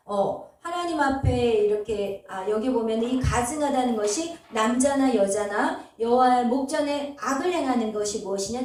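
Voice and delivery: ordinary talk, nothing marked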